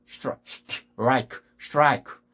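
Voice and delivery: 스트라이크 as one syllable "straik"; no vowels inside the str of 스트라이크; English pronunciation of strike. Shown as a demonstration. Teacher giving similar examples, English-style strike. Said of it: "이런 비슷한 발음들이".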